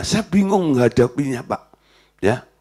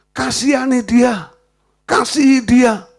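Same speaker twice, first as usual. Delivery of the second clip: gentle command; 8 semitones higher than usual. Retold or imitated. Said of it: "Lalu Roh Kudus bilang".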